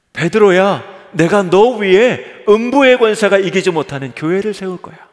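Jesus calling Peter. Acted. Jesus calling out to Peter, loud and affectionate. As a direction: call to Peter like a friend with big news. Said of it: "예수님이 지금 이렇게 말씀하시는 거예요".

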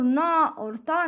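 "na" and "ta" with dark back vowels; heavy sound. Shown as a demonstration. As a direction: thicken "na" and "ta" toward aw. ("na, or ta" said heavily)

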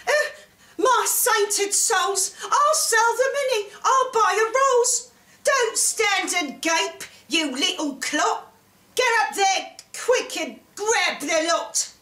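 high-pitched excited mother's yell; yelling out loud. A narrator's reading. Mother to Jack on spotting gold, yelling excitedly. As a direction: start high and thrilled, easing into bossy orders. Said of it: "yells out loud".

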